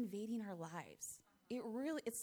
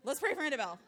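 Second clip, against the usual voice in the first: louder preacher's take on "Let's pray for Annabelle", higher and booming; Larry Schoonover; 5 semitones higher, 10 dB louder, much faster than usual. Retold or imitated. Mother hears a preacher in her son and imitates him, louder. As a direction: boom it out like a preacher calling the church to prayer. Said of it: "this is Larry Schoonover coming out".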